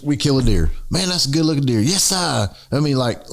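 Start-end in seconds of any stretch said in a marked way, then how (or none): 0.9-2.5 higher, excited Southern exclamation. Shown as a demonstration. Hunter admiring a killed deer, excited. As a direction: admire it, then sling out an excited "yes-sah". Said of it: "it's like the excitement in it".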